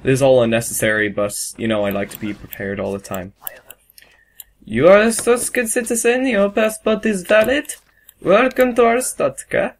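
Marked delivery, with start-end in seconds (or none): 4.6-9.7 high-pitched, ceremonious official welcome; mock border inspector. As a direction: proclaim approval in a raised official voice. Plays inspector admitting a citizen.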